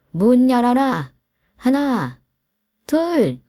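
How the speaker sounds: mother threatening the in-law at the door, furious; furious countdown. Acted. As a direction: bark the count like a final warning.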